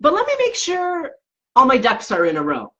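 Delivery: lightly voiced inner worrier, stalling with conditions; fussy controlling inner voice. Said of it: "it was like".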